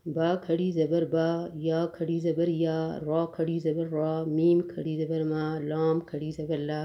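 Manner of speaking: even, level chant with each final vowel held long; qaida spelling recitation. Shown as a demonstration. Teacher reading khari zabar for students, drilled long vowels. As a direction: recite each letter and mark, stretching the last syllable. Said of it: "ایک الف کے برابر لمبا پڑھا جاتا".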